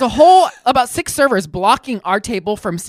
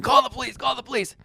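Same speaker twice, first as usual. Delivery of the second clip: mild, higher mock scream; 4 semitones higher, 4 dB quieter than usual. Old man told to leave, mild mock screaming. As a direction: repeat it quickly without real volume. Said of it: "and he's screaming".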